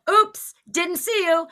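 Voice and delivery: very high, slow mock innocence; gloating taunt. Driver paying back the woman, gleefully mocking. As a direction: parrot the taunt back in singsong glee.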